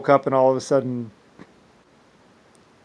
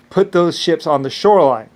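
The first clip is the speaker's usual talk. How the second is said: angry order; 3 semitones higher, 5 dB louder than usual. Retold or imitated. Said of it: "I have never been that mad".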